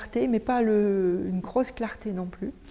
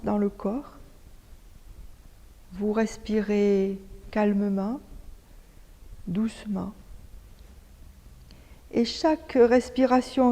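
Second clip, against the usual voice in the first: measured yoga nidra guide voice with long pauses; guided meditation. Acted. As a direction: lead them calmly into stillness, phrase by phrase. Guide une séance de yoga nidra. (voix posée de méditation guidée)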